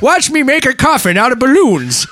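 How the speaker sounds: high, laughing clown voice. Pretend. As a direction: giggle through the line. Voicing the dying clown.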